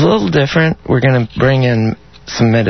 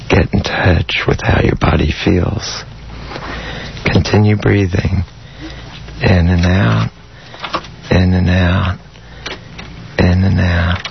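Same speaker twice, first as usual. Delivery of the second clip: guided meditation; 3 semitones lower than usual. Acted. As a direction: ease them into calm with long pauses. Leads an erotic guided meditation.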